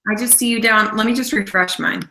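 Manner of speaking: choppy robotic call audio; glitchy robot-like video connection. Real, not acted. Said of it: "'cause you sound like a robot".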